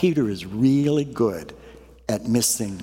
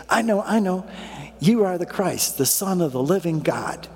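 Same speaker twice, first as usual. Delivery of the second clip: higher, eager schoolboy answer; 6 semitones higher than usual. Retold or imitated. Peter raises his hand to answer Jesus, eager. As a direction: blurt it out like a keen pupil.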